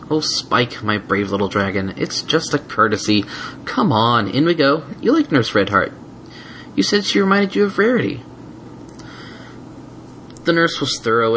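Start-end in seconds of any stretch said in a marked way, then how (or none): 0.1-8.2 tender, coaxing mare; calm him down; soothing. Acted. Twilight soothing.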